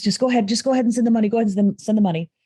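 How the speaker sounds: fast, pushy salesman voice; pushy hustler. Retold or imitated. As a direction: rush them into paying. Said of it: "come off to me as a hustler".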